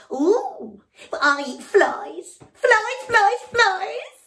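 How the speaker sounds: high, loud, slow booming boast; loud frog. Acted. Noisy frog loudly introducing himself to the elephant. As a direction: proudly bellow the name. Frog shouts about flies.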